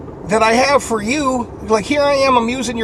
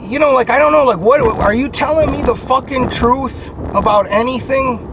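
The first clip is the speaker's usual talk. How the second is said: heated outburst; 5 semitones higher, 3 dB louder than usual. Retold or imitated. Angry retelling of fight.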